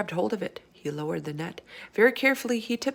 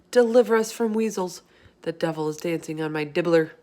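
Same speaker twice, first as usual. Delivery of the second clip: anguished; 5 dB louder than usual. Acted. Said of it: "His voice was filling with fear and anguish".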